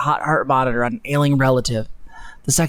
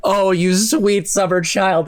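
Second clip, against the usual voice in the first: mock pity; 4 semitones higher, slower than usual. Shown as a demonstration.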